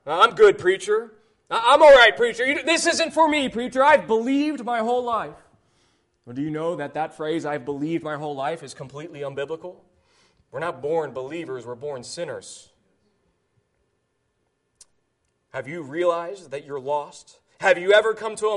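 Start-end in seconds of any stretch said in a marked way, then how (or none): 0.0-5.3 lightly voiced self-assured churchgoer; mild mocking imitation of a smug listener; mock complacent listener. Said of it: "Some of you may be thinking". 6.2-17.4 lower, softer, grave warning; preacher going quiet to press home judgment; solemn hush. Acted. Continues hushed.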